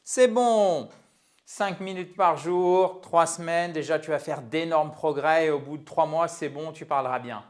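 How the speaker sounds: mock promise. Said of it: "Les gens qui vont vous dire".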